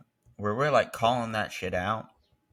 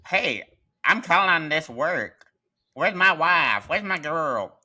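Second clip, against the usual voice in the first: loud, high brash call; 7 semitones higher, 6 dB louder, slower than usual. Retold or imitated. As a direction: call out loudly for the wife. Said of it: "they're like".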